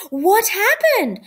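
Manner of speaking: a high, slow, eager question; fascinated. A narrator's reading. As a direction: lean in, hooked by the story. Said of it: "Ralph was fascinated".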